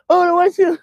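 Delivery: very high, loud comic squawk; mock outburst. Host reacting to her bugging, high mock outburst. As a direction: throw it way up high in mock disbelief.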